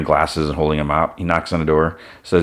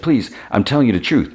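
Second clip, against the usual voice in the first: higher, pleading for her life; 6 semitones higher than usual. Retold or imitated. Secretary begging the thug holding a gun, scared plea. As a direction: beg him to believe you, voice raised in pitch.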